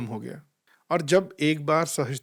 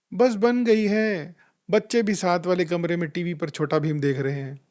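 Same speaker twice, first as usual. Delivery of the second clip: imitating a wife whining back from the kitchen; whiny reply; 3 semitones higher, 3 dB louder than usual. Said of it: "और उधर से भाभी भी".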